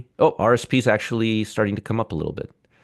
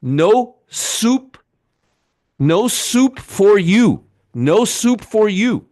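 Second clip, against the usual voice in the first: soup nazi quote; 9 semitones higher, 3 dB louder, much slower than usual. Retold or imitated. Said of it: "Here's what I have to say to the Fed".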